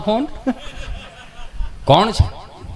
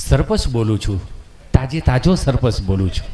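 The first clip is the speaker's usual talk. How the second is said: lower, self-important voice; proud sarpanch; 7 semitones lower than usual. Acted. New sarpanch tells Gabho on the phone who he is, lower and proud. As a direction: announce your new title to the caller.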